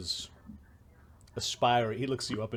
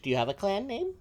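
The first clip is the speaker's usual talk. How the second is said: high little gnome voice; 9 semitones higher, faster than usual. Acted. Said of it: "She says in Gnomish".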